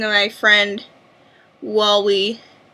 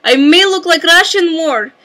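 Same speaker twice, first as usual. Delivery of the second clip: mock Russian accent; 2 semitones higher than usual. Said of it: "use the Russian accent".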